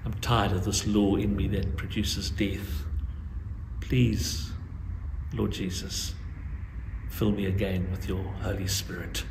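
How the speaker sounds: subdued, sincere model prayer; serious, heartfelt prayer. Acted. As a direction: pray it from the heart, with pauses. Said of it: "seriously from your heart say".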